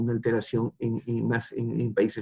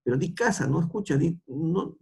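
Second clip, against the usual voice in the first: adulto pidiendo casa; 5 semitones higher than usual. Retold or imitated. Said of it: "que en lugar de decir casa".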